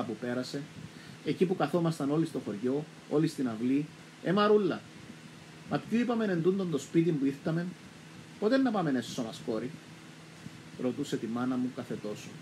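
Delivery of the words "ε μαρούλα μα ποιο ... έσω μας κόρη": calling out. Retold or imitated. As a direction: call across the yard. Grandmother calling her daughter.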